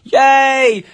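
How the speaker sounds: high, loud, drawn-out whoop; excited cheer. Real, not acted. Co-host cheering British winners after the song, high excited cheer. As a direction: cheer them on in a high, stretched voice.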